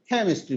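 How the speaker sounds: কেমিস্ট্রি with a light push on the first syllable; British pronunciation. Shown as a demonstration. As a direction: tap the খে in কেমিস্ট্রি, then মিষ্টি. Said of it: "খে খে একটু ধাক্কা মারে". (প্রথম অক্ষরে হালকা ধাক্কা দিয়ে কেমিস্ট্রি)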